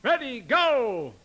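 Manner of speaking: slow, high, loud starting call. Shown as a demonstration. Teacher modelling for singers, calling out. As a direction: stretch it out as a shouted signal. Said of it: "it's in your calling voice".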